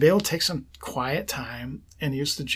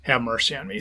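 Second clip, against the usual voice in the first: slow breath prayer; 3 semitones lower, 5 dB quieter, faster than usual. Shown as a demonstration. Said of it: "breathe out".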